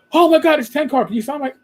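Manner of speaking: high, gushing fan voice; starstruck fan. Retold or imitated. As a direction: gush like a fan who spots a celebrity.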